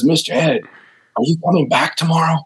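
a hint of a hopeful child asking; little Raul asking if he'll come back; little boy asking. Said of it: "He says, he says".

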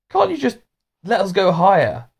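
put-on high, begging child voices; pleading children. Children pleading with Mister Majika. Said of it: "they pleaded with Mister Majika".

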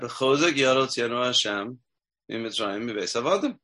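slow, deliberate chant of the verse; slow recitation. Shown as a demonstration. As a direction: recite it slowly, savoring each word. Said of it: "We just said".

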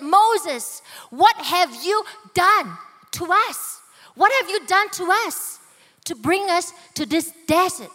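a crowd member furious with Moses, shouting; angry shout. Retold or imitated. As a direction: yell it in a rage at Moses. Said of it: "shouted at the top of his voice".

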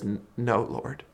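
a soft, hushed stammer held back from tears; astonished, near tears. Retold or imitated. Woman answering Jesus after the crowd leaves, in a hushed, stunned stammer. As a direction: barely voice it, stunned and close to tears. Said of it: "just astonished as she says".

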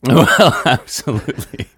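hyena-like giggling laugh; snarling with hyena giggles. Real, not acted. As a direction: cackle through the words like a hyena. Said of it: "I'm doing an impression of a hyena as we speak".

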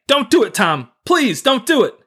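high, pleading cry of terror; screaming in fear. A narrator's reading. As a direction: beg Tom to stop, scared. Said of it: "Clayton's screaming voice saying".

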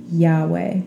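Yahweh on its own, said YAH-way; showing pronunciation. Shown as a demonstration. Teacher repeating God's name to show pronunciation, Yahweh said YAH-way. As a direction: set Yahweh apart as YAH-way. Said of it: "we pronounce it as Yahweh".

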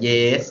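Yeats with a drawn-out "ay"; long vowel. Shown as a demonstration. Co-host prompts her on the name, long vowel. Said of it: "ออกเสียงยาวด้วยนะ".

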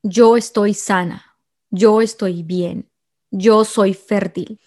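calm, deliberate self-affirmation, word by word; a friend's steady mantra, slowed right down. Retold or imitated. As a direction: say it slowly like a mantra you believe. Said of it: "quiero que te digas a ti misma".

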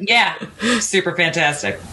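mock-enthusiastic sarcasm; sarcastic. Real, not acted. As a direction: agree with understated sarcasm. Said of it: "That was sarcasm".

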